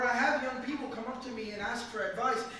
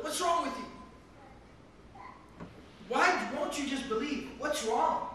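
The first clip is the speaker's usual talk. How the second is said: mock reproach; 3 semitones higher than usual. Imagined nephew scolding his uncle for not believing, mildly exasperated. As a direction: challenge him in mock frustration. Imagined rebuke the Prophet never made.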